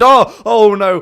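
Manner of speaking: loud sudden alarm. Real, not acted. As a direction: gasp out in alarm. Sudden danger in cave.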